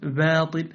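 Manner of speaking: "باطل" with b softened toward v; wrongly weak ba. Shown as a demonstration. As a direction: let air leak through the b of "باطل". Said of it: "ولا تقل". (إرخاء باء "باطل")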